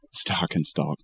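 "Stock" and "stalk" with different vowels; stock-stalk contrast. Shown as a demonstration.

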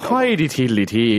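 slow, silly Irish jig chant; mock Irish lilt. Clowning for co-host, sing-song mock Irish. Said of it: "Irish accent".

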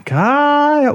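high, long held name; imitated pestering little sister; sister's nagging call. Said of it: "it was always something like this".

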